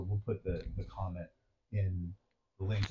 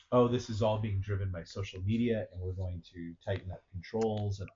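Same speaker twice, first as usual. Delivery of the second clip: mocking Macron; 12 dB louder than usual. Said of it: "Macron come out today and say".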